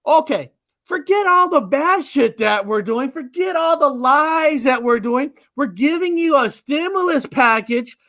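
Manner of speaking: mocking voice. Mocking the powers that be.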